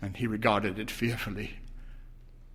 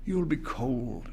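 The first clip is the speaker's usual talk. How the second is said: tender; slower than usual. A narrator's reading. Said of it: "he said tenderly".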